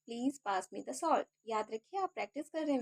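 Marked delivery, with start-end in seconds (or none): 0.1-1.2 very slow and clear; slow down so students can repeat; slow for practice. Shown as a demonstration. Teacher slowing down so viewers can repeat. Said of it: "इसलिए मैं धीरे-धीरे बोल रही हूँ".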